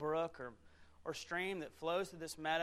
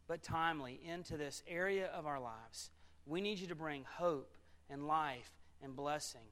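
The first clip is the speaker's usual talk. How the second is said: public prayer. Real, not acted. Pastor asks God to bless the preaching, real prayer. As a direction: pray aloud, unhurried, phrase by phrase.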